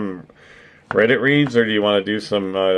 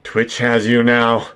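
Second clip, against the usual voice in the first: slow, drawn-out menacing read; creepy stalker voice; 3 semitones higher, 3 dB louder, slower than usual. Retold or imitated. Streamer reads a creepy chat message aloud, slow and menacing. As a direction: read it like a stalker promising you'll be his.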